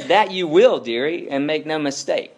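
put-on a light touch of a homely old beaver wife; Mrs Beaver. Mrs Beaver warning the children, lightly voiced. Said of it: "said Missus Beaver".

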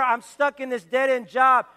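loud, exaggerated grumble; mock despairing shout. Shown as a demonstration. Pastor voicing a believer's complaint, loud. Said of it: "We can declare".

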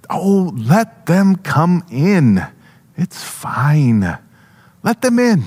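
a hint of a kind young mother, slow at first; lightly voiced young woman.

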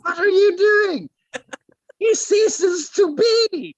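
high, slow indignant posh British voice; posh British accent. Pretend. Joking about Basil Fawlty, an indignant posh British voice. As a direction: huff like an outraged British shopkeeper. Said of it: "Basil Fawlty is in their voice".

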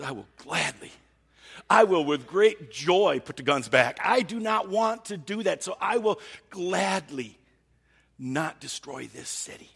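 loud, slow, earnest promise; fervent declaration. Retold or imitated. God tells Abraham he would gladly spare the city, loud and fervent. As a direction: declare it with great joy, slowly. Voicing God's heart emphatically.

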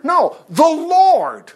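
preacher proclaiming the Lord as the answer; stress on Lord. Real, not acted. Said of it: "answering his own question".

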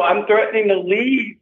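usual speaking voice

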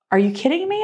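a touch of incredulous surprise; retold disbelief. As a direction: quote a stunned friend, lightly acted. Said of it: "it b-, blew her mind".

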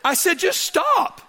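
high and loud, laughing through the punchline; can barely get it out for laughing. Real, not acted. Joking story, laughing through it.

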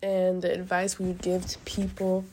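breathy, tearful near-whisper; choked up, barely voiced; crying. Real, not acted.

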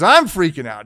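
loud, agitated outburst; worked-up, emphatic retelling; retold freak-out. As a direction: imitate a friend freaking out.

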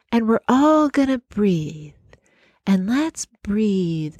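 lightly mocking a dreamy meditation host; mock soft sing-song. Mocking the meditation leaders on the Zoom call, mild soft sing-song. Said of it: "in this soft, sing-songy voice".

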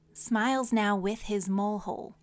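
"Smiles now with his mole hole" in six measured beats; evenly spaced "Smiles now with his mole hole"; syllable by syllable. Shown as a demonstration. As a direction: give each word of "Smiles now with his mole hole" its own beat. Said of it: "Let's count how many syllables".

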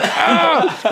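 high mock cry of pain; short, high re-enacted howl; pained yell. Friend re-enacts reaction to bitten finger, pained yell.

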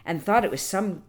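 expressive, measured read-aloud storytelling; story narration. A narrator's reading. Storyteller reading an old legend to listeners, expressive narration. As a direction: read it as an old legend, lingering on key words.

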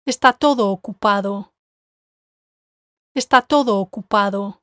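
TODO emphasized, the three words strung together; stress on TODO. Shown as a demonstration. Teacher modelling the third word group, stress on TODO. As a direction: lean on TODO and run it into OCUPADO. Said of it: "the word todo has to be emphasized".

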